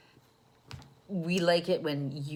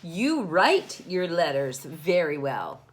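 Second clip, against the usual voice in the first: proud dad; 5 dB louder than usual. Acted. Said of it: "said Dad".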